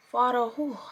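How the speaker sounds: put-on trying out a French accent; half-hearted mock French accent; attempted French accent. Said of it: "what is a French accent?".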